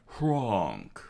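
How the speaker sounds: spoken honk of a snore; comic sleeper's honk; imitated honking snore. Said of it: "the sound of his honk".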